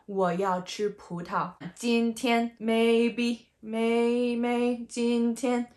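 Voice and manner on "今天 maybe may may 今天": 今天 with both syllables level and even; "may" and 今天 held on one even pitch; two first tones. Shown as a demonstration. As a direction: keep 今天 and "maybe" flat, no fall. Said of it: "Both are even".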